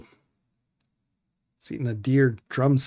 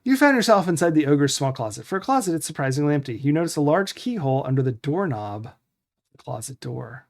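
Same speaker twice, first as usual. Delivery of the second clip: game narration read aloud. A narrator's reading. Player reading the game's scene text, in lively narration.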